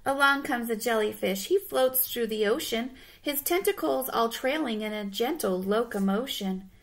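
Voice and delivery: measured, rhythmic storybook reading; storybook narrator; picture-book narration. Acted. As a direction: read to children, pausing for the rhyme. Reads picture book aloud.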